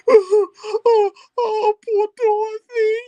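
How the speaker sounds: high, loud wail of grief; sobbing high lament. Acted. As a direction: cry out in pity for Dorothy. Figure wails over sleeping Dorothy.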